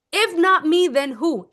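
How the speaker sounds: loud proud if not me; confident mantra; bold line. Shown as a demonstration. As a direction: declare it with audacity. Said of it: "I love that line".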